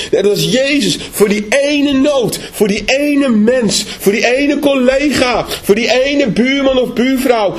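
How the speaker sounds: slow, weighty, each "ene" drawn out; stress on ene. Real, not acted. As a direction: hammer home "die ene" one by one. Preaching emphasis, slow on ene. (nadruk op "ene", traag en plechtig)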